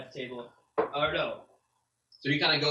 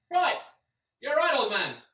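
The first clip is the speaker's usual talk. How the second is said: put-on loud, high, booming greeting to the old man; bellowing NPC through the door; hearty shout; 8 dB louder, slower than usual. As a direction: call it out big and cheerful.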